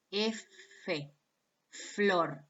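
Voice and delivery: teacher shows the F sound; demonstrating the sound. Shown as a demonstration. Teacher demonstrating the F sound for students. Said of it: "Háganlo ustedes".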